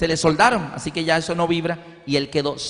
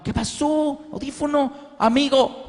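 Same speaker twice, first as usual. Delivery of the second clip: high, hushed imitation of a deaf child; deaf boy's voice; 9 semitones higher, slower than usual. Son answering his mother again, high hushed imitation. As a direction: mimic the boy's broken words, much higher.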